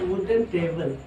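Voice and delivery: slow and drawn out for writing; slow dictation. Shown as a demonstration. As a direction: dictate the phrase slowly. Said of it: "हमने क्या लिखा?".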